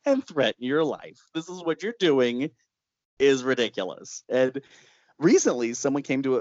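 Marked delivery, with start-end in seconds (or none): 0.1-4.2 scolding. Retold or imitated. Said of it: "scolding him like a little kid".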